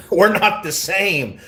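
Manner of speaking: "We're not the same" stretched slow and high with a laugh; laughing mock emphasis. Real, not acted. Streamer repeats his comeback, laughing.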